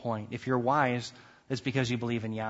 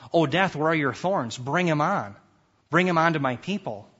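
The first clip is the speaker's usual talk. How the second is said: God summoning death, a bit louder; loud summoning cry; summoning call; 2 semitones higher, 3 dB louder than usual. Acted. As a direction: call death forward like a challenge. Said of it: "it's God asking that to come".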